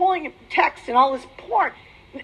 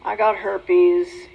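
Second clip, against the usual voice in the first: a slow, low, shamed murmur; ashamed admission; 5 semitones lower, much slower than usual. Retold or imitated. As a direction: mumble it, head hung in shame. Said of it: "hang my head down and go".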